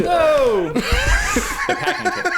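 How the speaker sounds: high delighted yelp; surprised shout. Real, not acted.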